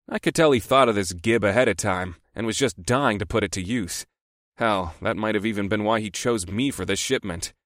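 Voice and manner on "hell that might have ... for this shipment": ordinary delivery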